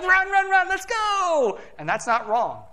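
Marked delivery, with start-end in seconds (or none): 0.0-1.6 much higher, loud, all fired up; eager rush. Retold or imitated. New believer rushing off excited at first, high and loud. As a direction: cheer yourself on like a new believer racing off. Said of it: "sometimes we get excited".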